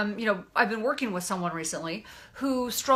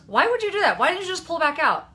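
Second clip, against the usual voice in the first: higher, louder mock-incredulous questioning; pitched up, pointed second-guessing; retold challenge; 6 semitones higher, 5 dB louder than usual. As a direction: imitate a passenger questioning the driver. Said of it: "she goes".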